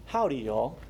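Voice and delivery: lightly put-on Texas accent; a hint of a friendly Texan greeting; Texan drawl. Preacher showing how accent reveals origin, mild Texan accent. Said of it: "They're from Texas".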